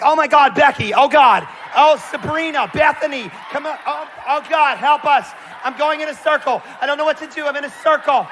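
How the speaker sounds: high, loud shrieking panic; panicked white girls. Retold or imitated. Scared white girls panicking at a midnight prank, high shrieking panic. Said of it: "When white girls are scared, they're like".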